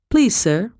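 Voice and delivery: high, urgent begging; pleading. Acted. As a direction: beg him desperately. Girl begging the colonel.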